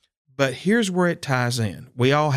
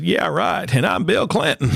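sarcastic; 6 semitones higher than usual. Retold or imitated. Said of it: "I thought it was friends playing a trick".

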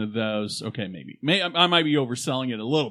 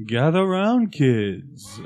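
announcer voice; much slower than usual. Shown as a demonstration. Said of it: "in your announcer voice".

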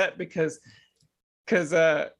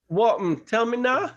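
Jamaican patois, rising high on now; a Jamaican patois hello with a lift on now; Jamaican patois greeting; 6 semitones higher than usual. Shown as a demonstration. The speaker demos the greeting, Jamaican patois. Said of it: "what else comes right after?".

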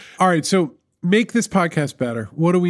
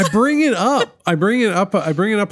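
raised business voice; 4 semitones higher, 3 dB louder than usual. Shown as a demonstration. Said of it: "half an octave when I'm in my".

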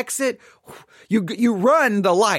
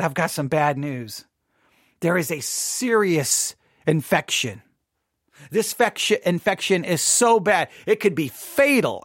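lower, slow grave doctor voice; solemn doctor; 4 semitones lower than usual. Retold or imitated. Doctor telling worried family bad news, low and grave.

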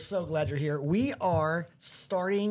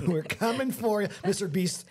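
laughing, teasing challenge; playful taunt; 5 semitones higher than usual. Pretend. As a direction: taunt him with a grin. Playful challenge to Mister Beast.

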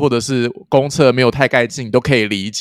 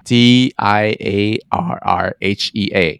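slow, letter by letter; D I A R R H E A spelled slowly; spelling out; 3 semitones lower, much slower than usual. Shown as a demonstration. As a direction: spell each letter of "D I A R R H E A" apart. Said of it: "稍微记一下".

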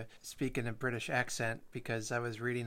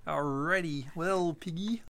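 puppet voice; 4 semitones higher, slower than usual. Pretend. Puppet voice addressing Piggy.

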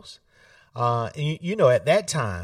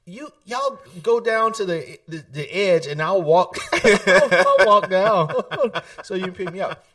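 giggling while quoting himself; laughing plea to be picked up down the street; laughing through it; 5 semitones higher, 6 dB louder than usual. Retold or imitated. Telling grandfather where to wait.

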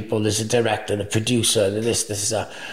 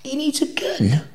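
shocked whisper. Retold or imitated. Mates react in shock.

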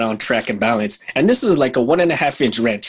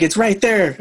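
spouse's reply in a higher voice; a wife saying it's right there, higher; high-pitched spouse voice; 7 semitones higher than usual. Retold or imitated. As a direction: mimic the wife, pitched well up. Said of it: "And it's like".

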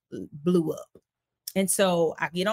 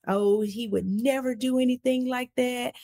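higher, breezy dismissive voice; oblivious mother; 6 semitones higher than usual. Retold or imitated. His mother on the phone dismissing it, breezy. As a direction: brush it off like a clueless mom. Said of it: "She completely is oblivious".

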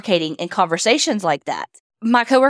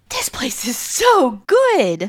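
whisper; 2 semitones higher, much slower than usual. Retold or imitated. Mimicking everybody raving about food.

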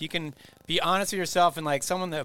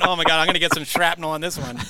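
laughing; 4 dB louder than usual. Retold or imitated. Laughing at a tirade on field.

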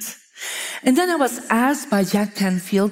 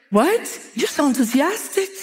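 surprised; 5 semitones higher than usual. Retold or imitated. Retold woman reacting surprised.

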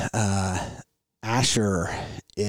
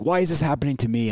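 whiny voice; 4 semitones higher, faster than usual. Retold or imitated. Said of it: "in that whiny voice".

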